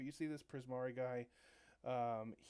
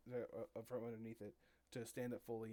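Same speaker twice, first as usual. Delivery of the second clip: usual speaking voice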